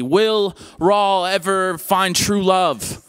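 slow, lightly dramatic teaser voice; mock cliffhanger teaser. Host teasing the series finale, mock cliffhanger. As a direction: tease the finale like a soap announcer.

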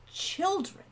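high, affronted one-word echo; cold. A narrator's reading. Owl interrupting his older brother, coldly affronted. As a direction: throw the word back coldly. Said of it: "Owl interrupted coldly".

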